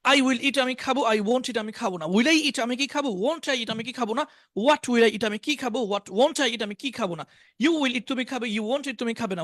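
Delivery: rhythmic drill, English phrase then Bengali meaning; model recitation. Shown as a demonstration. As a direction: recite the tense table in a steady patter. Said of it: "এইভাবে শোনাবেন".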